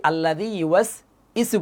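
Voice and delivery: quick "ইসু" with no w sound; common misreading. Shown as a demonstration. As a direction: read it fast, "ইসু" starting on bare ee. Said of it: "অনেকে পড়ি".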